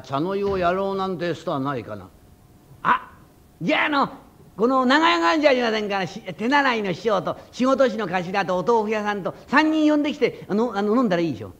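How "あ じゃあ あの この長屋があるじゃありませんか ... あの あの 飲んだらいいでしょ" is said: 高い声で元気な小僧; 高い声で無邪気にまくしたてる小僧; 小僧の声. Acted. 小僧の声を演じる. (高い声の小僧)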